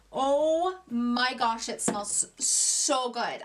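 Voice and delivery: slow, drawn-out rave over a scent; real swooning enthusiasm, very slow; gushing. Real, not acted. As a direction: stretch the words out in delight. Gushing over a cream's smell.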